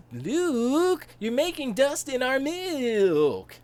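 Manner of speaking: aunt scolds Luke for dust in the milk; Aunt Beru scolding. Retold or imitated. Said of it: "That's how she talk".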